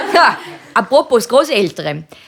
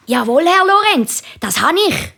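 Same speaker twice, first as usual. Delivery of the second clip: stolzer Schüler mit hoher Stimme; 9 semitones higher than usual. A narrator's reading. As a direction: melde es hoch und stolz dem Lehrer. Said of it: "Da sagt der Markus stolz". (stolzi, hochi Buebestimm)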